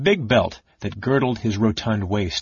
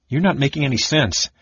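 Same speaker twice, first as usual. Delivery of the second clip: vicious snap; 5 semitones higher than usual. Acted. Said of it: "Caramon snapped viciously".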